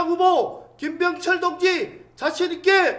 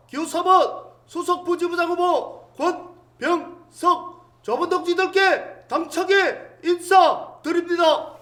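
rally speech. Acted. Campaign rally introductions.

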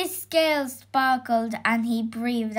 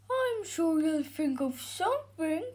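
softer, higher sleepy dragon; yawning dragon; 5 semitones higher, 5 dB quieter than usual. A narrator's reading. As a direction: brush it off drowsily. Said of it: "The dragon yawned".

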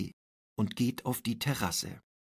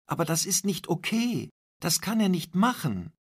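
indignant protest; 6 semitones higher, 3 dB louder, faster than usual. A narrator's reading. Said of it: "ruft Paula".

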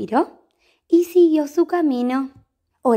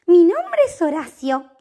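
composed; 5 semitones higher, 6 dB louder than usual. Acted. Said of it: "dijo Horacio muy compuesto".

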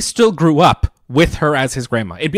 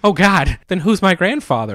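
high, alarmed outcry; mock panic; 8 semitones higher, 4 dB louder than usual. Fry learns she's his grandmother, high mock panic. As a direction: blurt it in hammed-up dismay.

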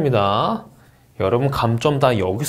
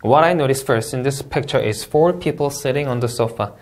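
very slow, clear model sentence; slow model answer reading; much slower than usual. Shown as a demonstration. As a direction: read it slowly like an exam model. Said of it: "가보도록 할게요".

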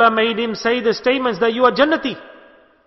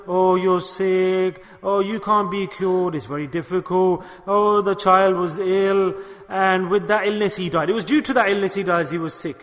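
mock gloomy visitor. Mocking a gloomy sick visitor.

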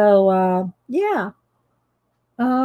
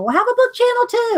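mocking other people; 12 semitones higher, faster than usual. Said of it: "people go".

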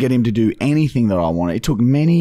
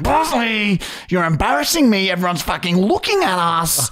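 suppressed rage; 7 semitones higher than usual. Retold or imitated. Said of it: "I'm holding back rage".

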